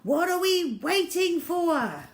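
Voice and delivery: high, loud, slow challenge to the men; rousing cry. A narrator's reading. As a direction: spur them into action. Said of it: "cried the chief".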